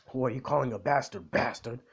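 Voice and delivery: mildly indignant retold comeback, run together; triggered. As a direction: throw the insult back, mock offended. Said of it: "like, triggered".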